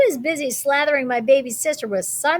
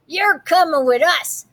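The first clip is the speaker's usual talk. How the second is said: pirate voice; 5 semitones higher, 4 dB louder than usual. Acted. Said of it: "Braidbeard told me".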